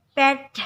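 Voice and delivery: "pet" with a bleating open E, loud and clear; goat-bleat E. Shown as a demonstration. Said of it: "seperti suara kambing mengembik". (ucapkan "pet" dengan E seperti kambing mengembik)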